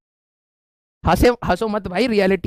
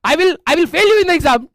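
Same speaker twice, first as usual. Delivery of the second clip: higher, slow mock-furious English threat; mock angry professor; 5 semitones higher, much slower than usual. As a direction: ham up the furious HOD. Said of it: "कहते". (गुस्साए professor की नकल, ऊँची धीमी आवाज़)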